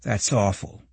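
subdued, quiet dismay; shocked. A narrator's reading. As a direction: take in bad news, understated.

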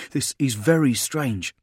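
voiced sergeant, drawn out slowly; puzzled soldier. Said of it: "he observed".

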